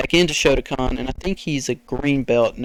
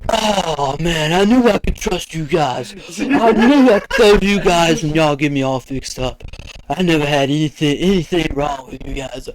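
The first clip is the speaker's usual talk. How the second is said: grateful stoned guy. Retold or imitated. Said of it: "He's like".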